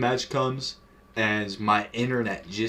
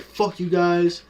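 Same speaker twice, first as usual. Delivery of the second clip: higher, slightly louder retold trash talk; mock-defiant taunts, pitched up a bit; shit-talking; 5 semitones higher, 4 dB louder than usual. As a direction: imitate a kid mouthing off online. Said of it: "I started shit-talking some more".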